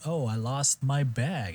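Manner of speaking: incredibly smooth. Retold or imitated. Imitating the contestant at lost baggage, incredibly smooth. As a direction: glide through it slowly like a fluent traveler. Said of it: "like, incredibly smooth".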